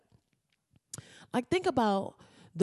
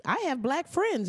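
quick, higher defensive excuse; mock coach excuse; 10 semitones higher than usual. Coach excusing himself to the press, higher mock defensive.

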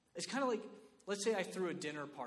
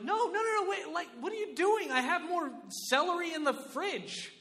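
much higher, louder mock outcry; exasperated host; 10 semitones higher, 6 dB louder than usual. Party host scolding guests who ran off, high exasperated. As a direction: scold the weird guests in disbelief.

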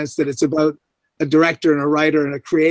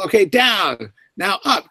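assistant director calling; 4 semitones higher, slower than usual. Retold or imitated. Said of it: "first A D was trying to call".

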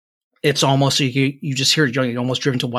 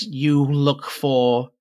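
put-on old hag; much slower than usual. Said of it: "the crone says".

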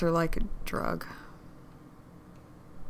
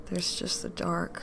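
whisper; 6 dB quieter than usual. Acted.

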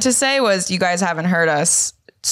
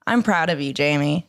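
proud of you; 6 semitones lower than usual. Retold or imitated. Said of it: "a moment where I got to say".

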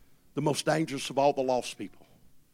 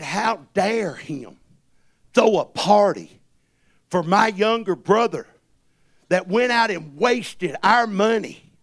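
acted indignation; 2 semitones higher, 6 dB louder, slower than usual. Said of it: "He got angry".

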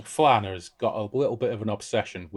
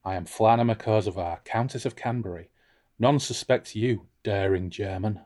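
Flana; 3 dB quieter than usual. Acted. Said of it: "I'm gonna be Flana".

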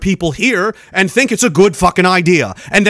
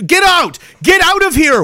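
mock shout; 8 semitones higher than usual. Voicing Legion throwing veterans out.

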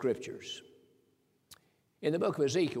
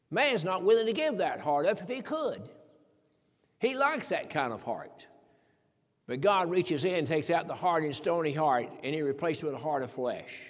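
loud, rising pulpit delivery; full-force sermon voice; fervent preaching; 4 dB louder than usual. Real, not acted. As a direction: preach it out to the congregation.

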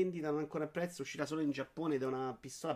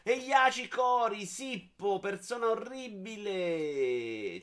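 drawn-out mock announcer; 6 semitones higher, 3 dB louder, much slower than usual.

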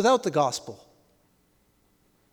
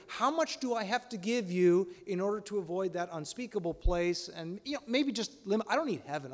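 bargaining; 7 dB quieter than usual. Acted. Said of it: "We want a bargain".

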